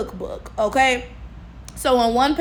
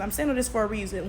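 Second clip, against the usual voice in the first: softer, faster aside; quiet repeat; 3 semitones lower, 7 dB quieter, faster than usual. Shown as a demonstration. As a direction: drop it to a quick murmur.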